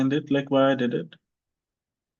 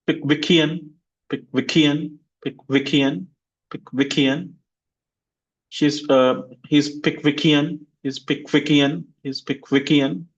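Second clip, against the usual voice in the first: Pickwickian, stress on -wick-, rising end; teacher drills word. Shown as a demonstration. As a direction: model Pickwickian for repeating. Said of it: "repeat after me".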